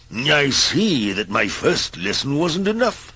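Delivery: a patient magician losing patience; wizard's warning. Acted. The wizard reappears to warn Mister Grumble, mildly stern. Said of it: "he said".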